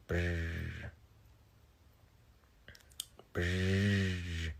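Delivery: "Brr" with a clumsy attempted trill; failed R roll. Shown as a demonstration. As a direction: try and fail to trill "Brr". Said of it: "I can never roll my R's".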